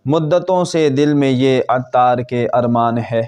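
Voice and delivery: slow, measured devotional verse; poem recitation. Acted. Reciting Attar's verses welcoming Ramzan, slow poem recitation. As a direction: recite the couplets slowly, drawing out each line's end.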